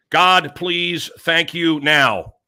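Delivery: "thank you now" slowed right down; deliberate slow prayer. Shown as a demonstration. Host teaching listeners a prayer, deliberate and slow. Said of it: "emphasize different words when you say it".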